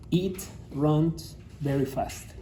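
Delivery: slow model sentence. Shown as a demonstration. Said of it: "tercera persona del singular".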